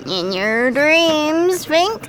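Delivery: slow, drawn-out taunt dissolving into cackles; mocking laugh. Drunk Bella laughs off the detective's vow, slow mocking cackle. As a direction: laugh in his face and drag the words out.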